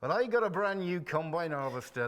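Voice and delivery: hammed-up, terrible West Country Devon accent; bad Devon accent. Host clowning as a Devon man, bad Devon accent. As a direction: put on your worst Devon accent. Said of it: "That's my worst Devon accent possible".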